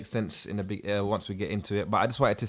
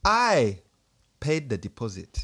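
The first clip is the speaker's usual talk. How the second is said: put-on Ugandan accent; slower than usual. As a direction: land the I hard, Ugandan reading. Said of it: "In the Ugandan accent, as requested".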